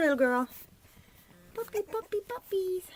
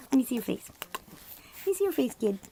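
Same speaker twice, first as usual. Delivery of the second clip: coaxing; 3 semitones higher, 5 dB louder, faster than usual. Real, not acted. Owner coaxing a puppy to show its face. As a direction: coax the pup to look up.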